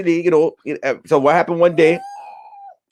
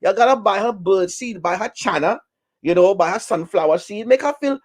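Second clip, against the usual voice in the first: outraged old goat reacting to gossip; shocked goat; 5 semitones higher than usual. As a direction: gasp it out in disbelief, pitched way up. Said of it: "He said".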